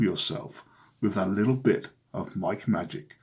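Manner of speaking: lightly voiced cocky charmer; smooth ladies' man. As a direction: sell yourself to the ladies. Ladies' man character Mike Safe.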